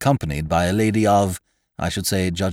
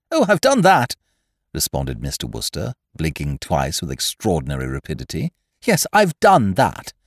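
flustered toff; 3 dB louder than usual. Acted. Wooster to Jeeves about the speech, flustered. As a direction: brush it off, rattled. Blinking twice with extraordinary rapidity.

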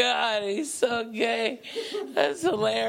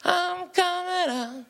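mock coming out; 4 semitones higher, slower than usual. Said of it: "and just".

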